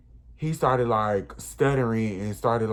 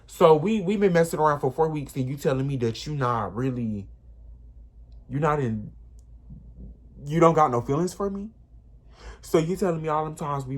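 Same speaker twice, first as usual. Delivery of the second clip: heated confrontation; 2 semitones higher than usual. Retold or imitated. Confronting him, retold argument.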